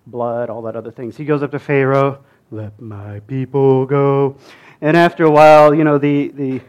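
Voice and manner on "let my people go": Moses demanding. Acted. Moses confronts Pharaoh.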